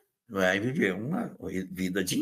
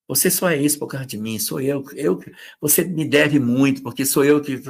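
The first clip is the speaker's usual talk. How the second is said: mock narcissist; 4 semitones higher, 4 dB louder than usual. Acting a narcissistic partner.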